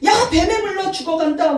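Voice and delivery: high whiny mock grumble; complaining people. Israelites grumbling to Moses about snakes, high whine. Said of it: "원망, 불평".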